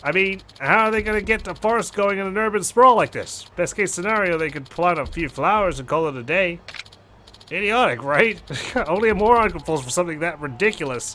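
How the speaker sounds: lightly voiced, incredulous caller; a hint of a derisive young boss; scoffing club manager. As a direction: ridicule the whole scheme. Voices Yuya mocking the scam.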